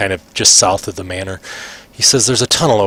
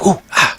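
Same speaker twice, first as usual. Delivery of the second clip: play-fight noises; 9 semitones higher than usual. Acted. Boy makes fighting noises, hand up.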